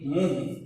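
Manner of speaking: मुंह drawn out, its vowel through nose and mouth; slowly nasalize the u of मुंह; nasalized vowel. Shown as a demonstration. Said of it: "इसका उच्चारण नाक और मुंह". (मुंह का स्वर नाक और मुंह दोनों से)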